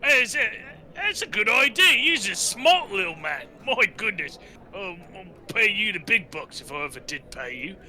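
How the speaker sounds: a lightly voiced dim-witted orc; dim brute praise. Mog praises his small companion in a lightly dopey voice. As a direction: boss the little guy around kindly.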